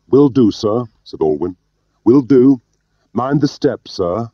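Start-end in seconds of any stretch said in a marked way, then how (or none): 0.1-0.9 high, loud acknowledgement; obliging doorman. A narrator's reading. Alwyn answers Gwilym's order at the door, high and obliging. 2.0-4.3 high-voiced, obliging doorman; Alwyn. A narrator's reading. Alwyn sees his superior out at the door, high and obliging.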